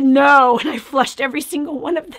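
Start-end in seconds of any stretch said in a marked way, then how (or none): 0.0-0.6 firm refusal. Retold or imitated. Refusing the doctor firmly.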